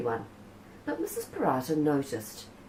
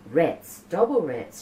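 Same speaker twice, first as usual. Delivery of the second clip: mock annoyed; 7 dB louder, slower than usual. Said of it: "she said to herself".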